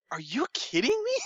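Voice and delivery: whispered, incredulous, rising at the end; whispered disbelief. Retold or imitated.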